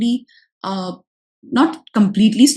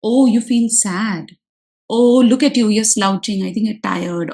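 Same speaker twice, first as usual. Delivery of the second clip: gentle parallel talk. Shown as a demonstration. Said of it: "Do the parallel talk".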